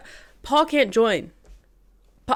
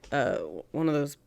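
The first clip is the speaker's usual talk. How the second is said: whisper; 5 semitones lower, 6 dB quieter than usual. Real, not acted. Whispered aside mid story.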